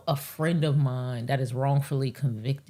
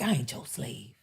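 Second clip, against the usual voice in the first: lower, softer imitated Southern accent; 4 semitones lower, 5 dB quieter than usual. Black lady talking back, imitated Southern accent. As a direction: put on a touch of Southern accent. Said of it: "she switched to, like, a, uh, Southern accent".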